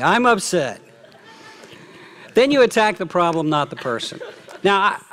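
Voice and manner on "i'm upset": I'm upset said through a laugh. Shown as a demonstration. Preacher laughing while showing how to admit being upset.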